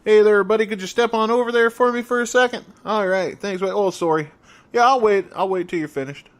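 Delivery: put-on high, loud, overly polite Canadian accent; mock Canadian accent. Imitating a polite Canadian rioter stepping aside, loud high Canadian accent. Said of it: "my Canadian and my Minnesota accents".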